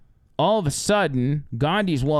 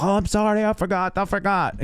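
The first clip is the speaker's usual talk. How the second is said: put-on high, sheepish drunk voice; drunk apology; 6 semitones higher than usual. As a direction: pitch up and apologize like a tipsy guest.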